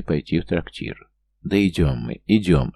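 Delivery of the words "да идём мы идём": annoyed, curt reply; irritated. Acted. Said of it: "раздражённо ответил Алекс". (раздражённо)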